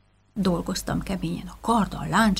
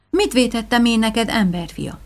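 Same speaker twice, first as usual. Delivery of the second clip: pained monster; 3 semitones higher, 6 dB louder than usual. Acted. Monster pleads with hero.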